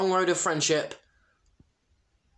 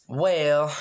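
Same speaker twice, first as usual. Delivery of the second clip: slow drawn well; 4 dB louder than usual. Acted. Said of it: "Applejack said slowly".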